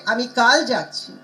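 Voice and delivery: "কাল" punched in mid-sentence; stress on কাল. Shown as a demonstration. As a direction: lean hard on the middle word "কাল". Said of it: "you'll stress some".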